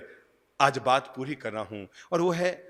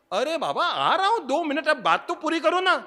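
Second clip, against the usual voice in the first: placating; 13 semitones higher, 4 dB louder than usual. Retold or imitated. Socrates placating wife.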